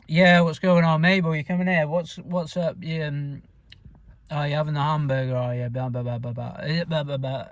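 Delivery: northern English mumble, words running together; mumbly northern UK accent. Shown as a demonstration. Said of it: "northern U K mumbly accent going on. I'll try and do it for you now".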